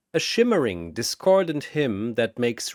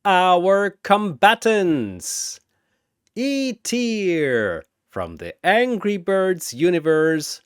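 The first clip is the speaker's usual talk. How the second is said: booming announcer; 4 semitones higher than usual. Acted. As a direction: boom it across the arena. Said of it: "Zurubang's voice booms across dimensions".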